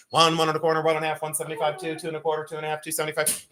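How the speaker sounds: fast auction chant in quarter steps; rapid-fire auction bid chant; auctioneer drill. Shown as a demonstration. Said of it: "I'm gonna continue to do it".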